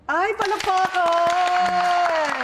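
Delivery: high, loud, drawn-out cheer; cheering applause call. Real, not acted. Host cheering the guest on, drawn-out excited call. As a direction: call for applause, slow and bright.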